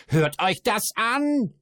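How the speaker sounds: high, loud, slow outraged squawk; indignant dwarf voice. A narrator's reading. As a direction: cry out in mock outrage. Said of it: "erregte sich der Zwerg".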